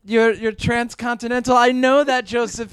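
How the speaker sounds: lightly put-on Japanese accent; mother in a wobbly Japanese accent; mock Japanese mother. Mock mom rambles to son on phone, vague Japanese accent. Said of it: "I'm the Japanese part of your family".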